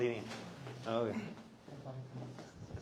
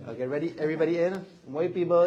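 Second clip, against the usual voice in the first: louder, higher count for the camera; rally everyone for the shot; photo countdown call; 4 semitones higher, 7 dB louder, much faster than usual. Real, not acted. Calling the group in for a photo, loud countdown.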